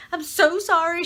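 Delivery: high, loud mock tearful sorry; imitating crying apology.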